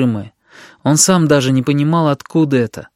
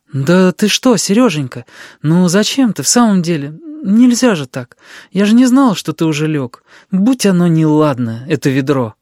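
high, louder worried aunt; flustered consoling; 5 semitones higher, 4 dB louder than usual. A narrator's reading. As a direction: fuss over a crying child, apologetic. Flustered aunt consoles crying boy. (встревоженно утешая, высоким голосом)

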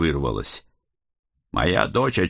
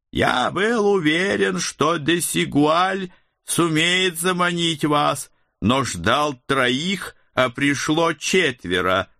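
sinister necromancer; 8 semitones higher, slower than usual. Acted. Некромант продолжает речь.

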